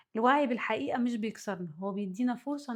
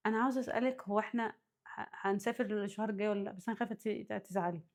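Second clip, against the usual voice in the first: hesitant phone question; 6 dB quieter than usual. Shown as a demonstration. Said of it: "أنا كاتبة لكم مكالمة حد".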